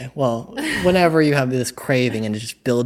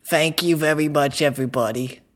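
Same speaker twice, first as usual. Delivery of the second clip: put-on British character accent; a shaky try at British, as a character; British Herschel; 3 semitones higher than usual. Shown as a demonstration. Host tries again for doubting friends, British Herschel. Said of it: "Let me try a British Herschel".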